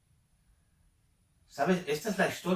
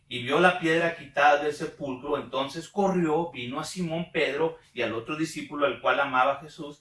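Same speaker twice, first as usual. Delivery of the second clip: louder, declaimed Bible reading; projected scripture reading; 6 dB louder than usual. Shown as a demonstration. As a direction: retake it with more projection. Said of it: "retomamos aquí".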